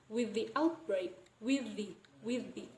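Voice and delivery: "with the" merged on one TH; "with the" linked, no break between; full assimilation. Shown as a demonstration. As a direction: join "with the" with a single TH sound. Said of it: "That is exactly the same".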